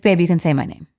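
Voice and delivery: half-managed Scottish imitation; attempted Scottish accent. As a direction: have another go at a Scottish boyfriend. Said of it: "Scottish accent when, when I'm talking to him".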